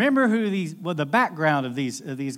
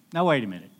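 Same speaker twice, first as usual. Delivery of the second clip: a tired fisherman scoffing at a carpenter; skeptical grumble; 2 semitones lower than usual. Retold or imitated. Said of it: "He's thinking".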